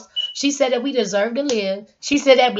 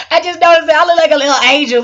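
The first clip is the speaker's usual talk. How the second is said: excited; 4 semitones higher, 8 dB louder, faster than usual. Real, not acted. Excited at her white video look.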